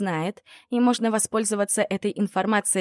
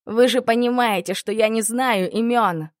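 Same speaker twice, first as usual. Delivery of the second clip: desperate shout; 4 semitones higher, 5 dB louder than usual. Acted. Tortured man screams plea.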